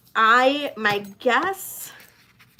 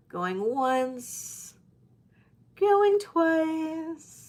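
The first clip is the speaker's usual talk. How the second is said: hammed-up auctioneer; 8 semitones higher, much slower than usual.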